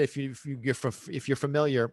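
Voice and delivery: repeating words, stumbling; can't get the words out; stuttering. Real, not acted. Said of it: "see, I, I'm stuttering".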